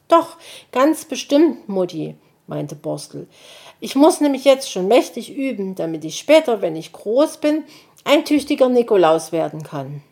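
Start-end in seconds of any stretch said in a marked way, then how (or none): 0.1-2.2 hohe Kinderstimme, eifrig; kleiner Igeljunge. Acted. Borstel beharrt. 3.8-10.0 hohe Kinderstimme, eifrig; kleiner Igeljunge. Acted. Borstel erklärt eifrig.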